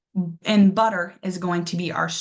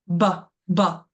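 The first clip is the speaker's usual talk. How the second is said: bu- punched and repeated, a touch louder; stressed syllable demo; 4 dB louder than usual. Shown as a demonstration. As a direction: hammer the syllable bu- for the class. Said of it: "our stress syllable right away".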